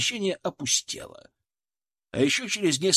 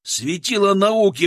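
loud, higher, slow contemptuous jibe; scornful sneer; 6 semitones higher, 7 dB louder than usual. A narrator's reading. Soldier sneering at the cowardly scientist. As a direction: spit the mockery at him.

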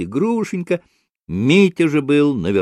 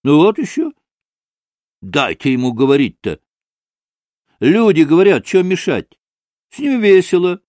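higher, louder irritated retort; snapping back; 7 semitones higher, 6 dB louder than usual. A narrator's reading. Grushenka defends the talker against the pan, snapping back. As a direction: snap back in indignation. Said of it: "огрызнулась Грушенька".

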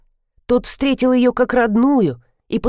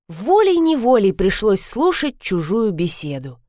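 ordinary delivery

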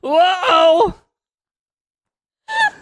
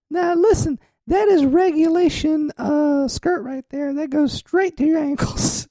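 man doing a woman's voice; 2 semitones higher than usual. Acted. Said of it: "lady voice?".

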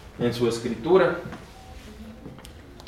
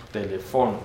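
telefono as te-le-FO-no, softer; lower, joined-up telefono leaning on FO; Esperanto stress; 4 semitones lower, 4 dB quieter than usual. Shown as a demonstration. Teacher rounds off the correction, telefono stressed on FO. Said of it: "es telefono".

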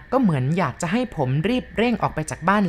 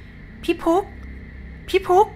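very high, thin ghost voice calling a name; a small, piercing spirit's call drawn out in the night; high eerie ghost calling; thin ghostly call; 12 semitones higher, much slower than usual. A narrator's reading. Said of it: "มีเสียงแหลมๆเล็กๆดังขึ้น".

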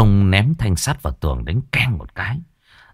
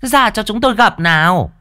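calling out at the gate; 13 semitones higher than usual. Acted.

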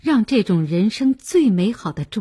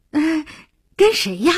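high, nosy questioning; pry with a raised, inquisitive pitch; curious, surprised; 7 semitones higher, 3 dB louder than usual. Acted. Clerks asking the groom about his bride, curious. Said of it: "不禁有些奇怪".

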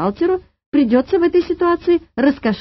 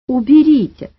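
loud, higher command, hardly a hiss; hissed order; 4 semitones higher, 7 dB louder than usual. A narrator's reading. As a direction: demand it sharply. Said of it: "зашипела санэпидемстанция". (возмущённый приказ)

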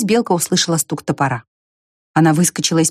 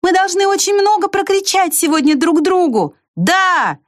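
very high shouted call; 13 semitones higher than usual. A narrator's reading. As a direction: shout it over the wall. Ant shouts over fence.

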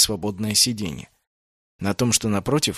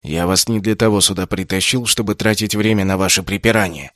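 ordinary delivery, nothing marked

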